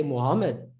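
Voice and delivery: Muhammad said Western-style, short M; quick single M in Muhammad; Western pronunciation. Shown as a demonstration. Teacher showing how the West says Muhammad, Western pronunciation. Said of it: "some in the West will say".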